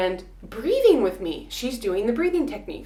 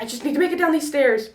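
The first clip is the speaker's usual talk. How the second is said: psyching up; 7 semitones higher, 4 dB louder, faster than usual. Retold or imitated. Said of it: "And I'm like".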